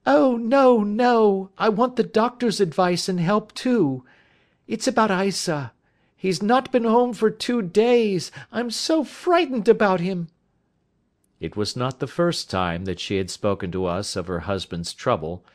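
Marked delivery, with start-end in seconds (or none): 0.1-10.3 much higher, louder anxious woman's voice; distressed wife's high loud pleading; frightened plea. A narrator's reading. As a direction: plead urgently, scared for her husband.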